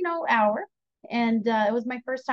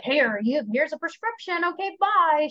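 higher, mock dismissive send-off; hasty brush-off; 4 semitones higher than usual. Psychiatrist hurrying a patient out with a prescription, mock brush-off. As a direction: imitate a doctor getting rid of someone. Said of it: "she wasn't quick to be like".

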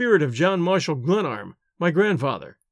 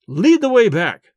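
slow furious roar, much louder; 4 semitones higher, 7 dB louder, slower than usual. A narrator's reading. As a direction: roar the order in rage. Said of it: "I roared".

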